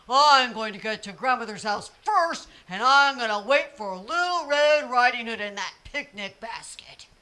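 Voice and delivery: a big bad wolf sweet-talking a child; sly wolf. Wolf sweet-talks the little girl on the path.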